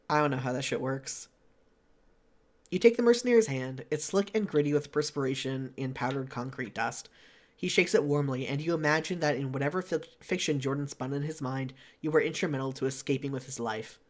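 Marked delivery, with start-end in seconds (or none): 2.7-14.0 measured game narration; story narration. Acted. Reading a visual novel's scene to a friend, story narration. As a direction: read the scene out steadily.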